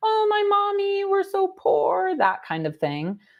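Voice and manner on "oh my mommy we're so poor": very high, whiny, drawn-out sobbing voice. Retelling how a woman mocked Steffi crying about her mother, mocking Steffi in a high voice. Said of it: "She used a high-pitched voice".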